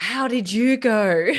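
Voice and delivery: slow, laughing through the question. Retold or imitated. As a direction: ask it while laughing, slowly. Joking about birth story question.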